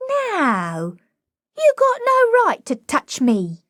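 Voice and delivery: plead, near tears, with a cracked high voice; a frightened girl protesting; whimpering. A narrator's reading.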